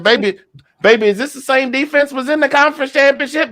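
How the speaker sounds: high, incredulous questions to his wife; asking wife in disbelief during the game; amazed. Retold or imitated. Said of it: "I said".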